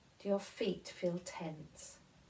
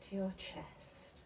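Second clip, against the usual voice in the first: whisper; 5 dB quieter than usual. Acted. Body scan, voice drops.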